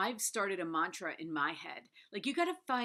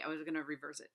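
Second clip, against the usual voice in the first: ordinary talk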